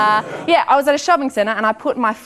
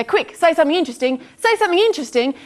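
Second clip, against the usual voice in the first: urgent inner voice; 6 semitones higher, faster than usual. Retold or imitated. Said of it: "And then my mind goes".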